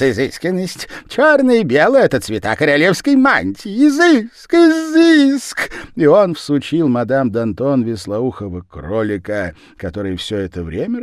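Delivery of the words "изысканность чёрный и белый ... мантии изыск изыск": exclaiming. A narrator's reading. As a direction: gasp with fake admiration. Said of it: "восклицал японец".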